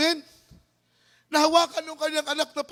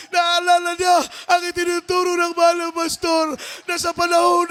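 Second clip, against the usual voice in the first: fervent preaching. Acted. Preacher builds to fervent climax.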